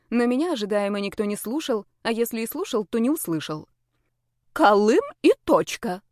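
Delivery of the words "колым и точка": slow, firm, far harder voice; ultimatum. A narrator's reading. Mother to son, a slow firm ultimatum. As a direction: lay down the law, word by word. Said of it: "поставила ультиматум".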